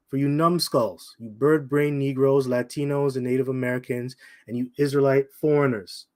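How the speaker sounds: slow and deliberate, word by word. Shown as a demonstration. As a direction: spell it out slowly for the slow ones. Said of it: "I'm gonna say it slow".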